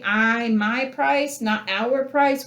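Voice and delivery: "my price" slow with stress on "my". Shown as a demonstration. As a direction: lean hard on "my", not "our". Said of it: "contrasts my vs our".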